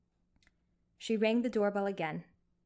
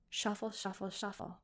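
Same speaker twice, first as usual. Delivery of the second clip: fading whisper-soft; 6 dB quieter than usual. A narrator's reading. Narrator evokes fading footsteps.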